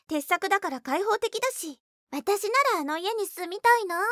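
high, loud, sing-song needling; taunting. Acted. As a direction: gush mockingly to provoke. Sister taunting with praise. (わざとらしく褒めて挑発する)

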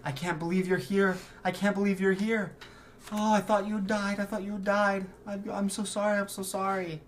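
high, loud, tearful mother's reunion cry; a mother sobbing with relief. Acted. GM voicing the mother, tearful and high.

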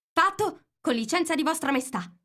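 high, loud military report; shouted reply. A narrator's reading. Soldiers report to the Queen, shouting high. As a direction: shout back high and prompt. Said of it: "urlarono in risposta".

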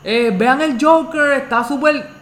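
high-pitched hyped cry, imitating a raving moviegoer; mock-shout it like someone bursting out of the cinema; mock excited yelling. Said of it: "salir del cine gritando".

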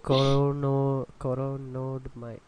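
slow, halting tries at corona; fumbling the word corona again; tripping over the word. Real, not acted. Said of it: "It's hard to say".

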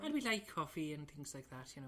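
lilting Irish podcast introduction; Irish accent. Shown as a demonstration. Host doing the requested Irish one, Irish accent. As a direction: put on a chatty Irish brogue. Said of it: "you should do your Irish one".

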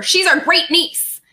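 high, loud, slow announcement; shouted. A narrator's reading. Missus Penny bursts in at Riley's door, shouting. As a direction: shout it out slowly, insisting. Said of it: "Missus Penny shouted as she wrenched open".

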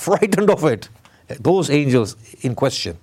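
ordinary talk

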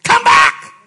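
loud breathy calling after someone; mock pleading call. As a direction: call him back loudly. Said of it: "Jesus never said".

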